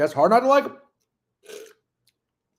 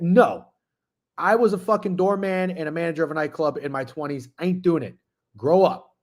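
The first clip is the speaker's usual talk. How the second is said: louder, higher exasperated rant at a chatter; heated rant; 5 semitones higher, 4 dB louder than usual. Real, not acted. Streamer scolding a chatter who begged for an unban, exasperated rant. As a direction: let him have it, fed up and loud.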